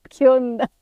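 loud surprised blurt; a sudden loud what. Retold or imitated. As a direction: blurt it out, amazed. Surprised at daughter connecting.

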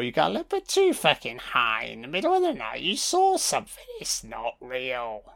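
mock a parent waving off a kid's story; a hint of a condescending adult; dismissive adult. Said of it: "Classic eighties technique and a dismissive adults".

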